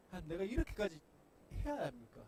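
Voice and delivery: complaining, resentful. Pretend. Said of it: "불평과 원망 섞인 어조로".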